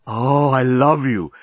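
slow, swooning declaration; lovesick. Acted. Alien journalist besotted with Lucy, slow lovesick sigh. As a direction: draw it out in adoration. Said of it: "said the journalist".

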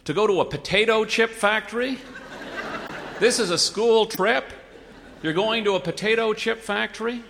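can't believe his ears; incredulous. A narrator's reading.

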